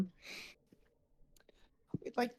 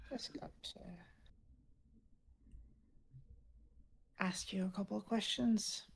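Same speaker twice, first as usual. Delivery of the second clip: sinister interrogator; 3 semitones higher than usual. Acted. Intruders interrogate Hardam.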